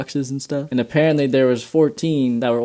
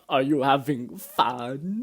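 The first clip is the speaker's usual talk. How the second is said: drugged partygoer; much slower than usual. Retold or imitated. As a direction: stretch each word as if tripping. Drugged man greets friends, acted.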